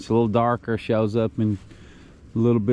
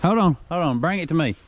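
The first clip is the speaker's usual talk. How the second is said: high urgent commands; tense, keep the fish on; fighting a fish; 6 semitones higher, faster than usual. Real, not acted.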